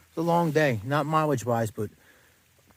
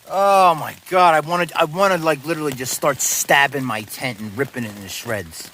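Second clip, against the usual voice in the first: exasperated outburst; 5 dB louder than usual. Real, not acted. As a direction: vent it out loud. Venting rage at tent.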